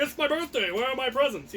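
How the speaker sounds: high, indignant demand for presents; mock entitled whine. Imagined self at the party, mock demanding presents. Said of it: "show up and like".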